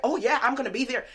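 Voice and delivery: quick, lifted, eager acceptance; excited retelling. Retold or imitated. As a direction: imitate an eager, happy yes. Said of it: "she was so excited".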